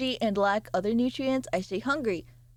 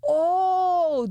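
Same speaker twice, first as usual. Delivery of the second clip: surprised; 7 semitones higher, 5 dB louder than usual. Real, not acted. Surprised reaction to chat.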